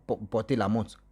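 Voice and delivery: ordinary delivery, nothing marked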